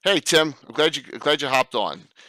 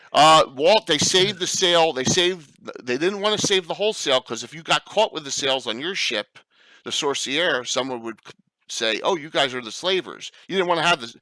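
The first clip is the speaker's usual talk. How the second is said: put-on old man voice; 2 semitones higher than usual. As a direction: rant like a cranky old grandpa. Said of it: "using the old man voice from The Simpsons".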